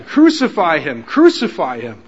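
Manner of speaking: loud repeated chant of crucify him; crowd shouting. Retold or imitated. Preacher voicing the mob demanding Jesus die, loud chant.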